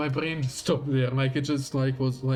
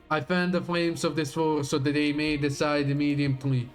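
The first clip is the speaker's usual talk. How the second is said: dramatic villain reading; grand, menacing speech to an enemy; villain monologue; 3 semitones higher than usual. Acted.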